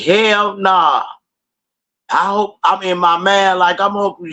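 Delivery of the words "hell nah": higher, snappy "Hell nah"; quick dismissal. Retold or imitated. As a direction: toss off "Hell nah" up high. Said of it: "I said".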